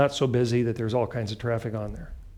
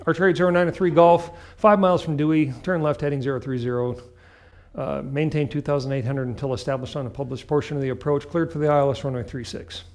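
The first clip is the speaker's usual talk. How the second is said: brisk clearance read, raised; controller over the radio. Retold or imitated. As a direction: rattle off like approach control. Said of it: "All right, so".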